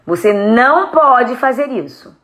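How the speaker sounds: slow, firm parental prohibition. Shown as a demonstration. Parent forbidding a child, firm. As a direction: lay down the rule slowly and firmly. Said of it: "Eu vou falar aqui pra vocês assim".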